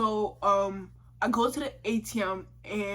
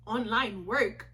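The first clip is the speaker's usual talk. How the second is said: slow, questioning repeat with a rise; skeptical echo; much slower than usual. Retold or imitated. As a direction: imitate a doubtful clerk, drawing it out. Clerk doubts the speaker's answer.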